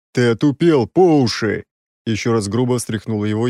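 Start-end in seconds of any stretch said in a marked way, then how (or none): 0.1-1.6 rough rebuke. Acted. Hero shaking prince roughly.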